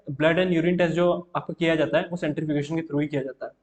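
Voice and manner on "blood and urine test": slow, deliberate note-taking pace; slow teacher dictation. Shown as a demonstration. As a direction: read it out slowly for the notebook. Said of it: "धीमे ही बोलूँ".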